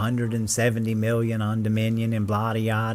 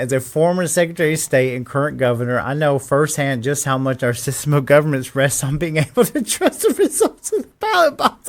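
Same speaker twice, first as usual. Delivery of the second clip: incredulous reread. Shown as a demonstration. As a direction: reread it as if it's absurd. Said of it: "I'm reading it again".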